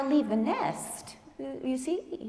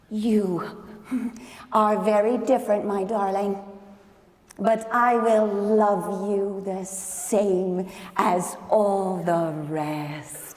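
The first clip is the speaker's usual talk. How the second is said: tender; 3 semitones lower than usual. Acted. Mother speaks tenderly to duckling.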